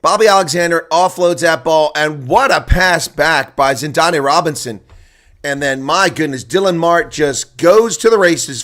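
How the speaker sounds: thrilled commentator calling a long breakaway; excited call. Real, not acted. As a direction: lift the call as he goes to the races. Big break in a rugby match.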